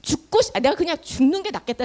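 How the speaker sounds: worn-out begging with halting starts; acted despairing plea. Exhausted Moses begging the Lord to end his life, despairing. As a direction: beg God for release, at your limit. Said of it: "싶을 정도로 모세가 지쳤어".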